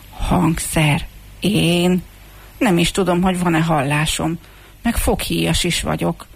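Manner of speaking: mildly bewildered, hesitant self-doubt; surprised muttering. Acted. Comb doubts it could be an instrument, muttering in surprise. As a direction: question it in short, puzzled bits. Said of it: "meglepődve motyogott".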